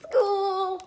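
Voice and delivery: high, loud cheer; excited. Acted. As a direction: cheer for the first day. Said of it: "She sounds excited".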